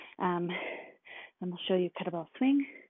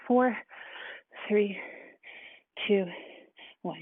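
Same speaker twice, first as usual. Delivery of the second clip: calling out countdown; slower than usual. Real, not acted. Counting down to workout start.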